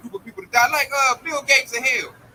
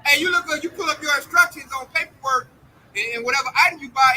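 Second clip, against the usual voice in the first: ordinary talk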